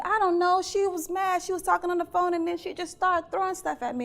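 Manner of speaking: a hint of a hurt child telling what happened; voicing a young girl. Quoting the girl about her mom.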